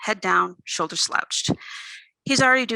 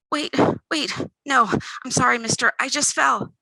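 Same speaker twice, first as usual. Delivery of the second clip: panicked pleading; 5 semitones higher than usual. Acted. Pinned thief begs to be released.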